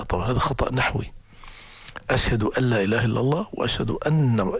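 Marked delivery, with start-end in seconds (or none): 2.1-3.5 أن لا said as one flowing "أَلَّا"; the correct merged reading; assimilated nun. Shown as a demonstration. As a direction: glide the nun of أن into the lam. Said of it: "أن ساكنة مدغمة في اللام".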